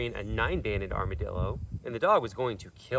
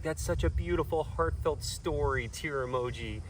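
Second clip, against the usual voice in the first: mock gushing commenter; 3 semitones higher, slower than usual. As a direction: coo it like a sentimental commenter, hammed-up. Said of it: "everybody's like".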